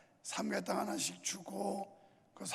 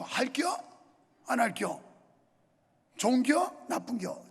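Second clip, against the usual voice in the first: Chungcheong dialect; 4 dB louder than usual. Retold or imitated. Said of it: "충청도 사람들은".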